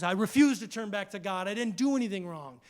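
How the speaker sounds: a touch of defiant Job. Retold or imitated. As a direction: stand your ground, pushing the words out. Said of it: "And Job says".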